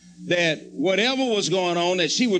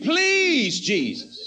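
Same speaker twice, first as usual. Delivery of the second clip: desperate pleading prayer; 5 semitones higher, much slower than usual. Retold or imitated. Retelling his prayer, a man begging Jesus for protection. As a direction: beg Jesus like your heart is about to break. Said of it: "I prayed one of them kind of prayers".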